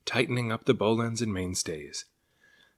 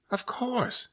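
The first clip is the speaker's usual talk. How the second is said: sudden bright idea, much higher; excited exclaim. A narrator's reading. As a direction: cry it out as the sea serpent gets an idea. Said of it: "he exclaimed".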